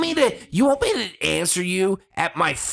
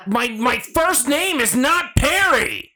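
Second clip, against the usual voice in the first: exasperated retort; 8 semitones higher, slower than usual. Retold or imitated. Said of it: "I'm like".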